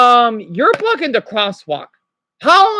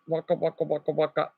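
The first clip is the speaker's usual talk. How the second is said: soft Pac-Man sound; 5 semitones lower, 10 dB quieter than usual. Retold or imitated. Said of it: "Now it's Pac-Man".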